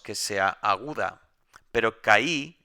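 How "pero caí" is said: caí said louder, stress on the final Í; teacher showing where the stress falls; stressed example. Shown as a demonstration. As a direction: point out caí with weight on the last syllable í. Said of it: "el ejemplo que puse antes".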